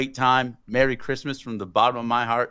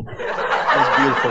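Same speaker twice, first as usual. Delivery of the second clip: laughing; 4 dB louder than usual. Real, not acted.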